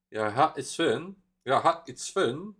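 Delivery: lilting Swedish singsong, playfully exaggerated; mock singsong Swedish. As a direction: imitate the singing Swedish melody. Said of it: "more, like, singing when they speak".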